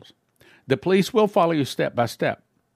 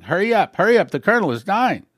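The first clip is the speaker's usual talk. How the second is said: urgent raised call, higher and louder; hurried officer's alarmed cry; retold yelling; 5 semitones higher, 4 dB louder than usual. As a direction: shout it like the colonel is dying. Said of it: "another officer came yelling".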